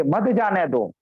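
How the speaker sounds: "मत जाने दो" as one joined phrase; grouped after pause. Shown as a demonstration. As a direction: attach "मत" to "जाने दो", falling at the end. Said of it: "अल्प विराम दे करके". ("मत जाने दो" एक साथ)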